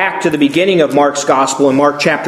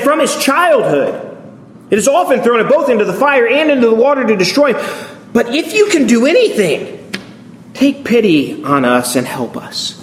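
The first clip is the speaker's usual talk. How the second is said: pleading, breaking with desperation; desperate father; 5 semitones higher than usual. Retold or imitated. Father begging Jesus to heal his son, desperate. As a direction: beg for the boy's life. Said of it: "you hear the desperation in the father's voice".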